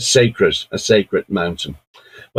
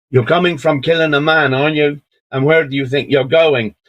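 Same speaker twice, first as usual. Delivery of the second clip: higher-pitched soldier in mock Brummie; Brummie accent; 5 semitones higher than usual. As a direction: question sceptically in a put-on Brummie accent. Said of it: "in a Brummie accent".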